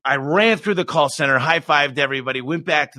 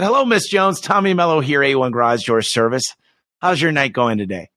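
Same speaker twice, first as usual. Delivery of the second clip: bright sales greeting; 3 semitones higher than usual. Retold or imitated. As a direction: greet the customer like a pleased salesman. Cheerful sales call greeting.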